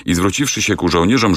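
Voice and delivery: plain reading voice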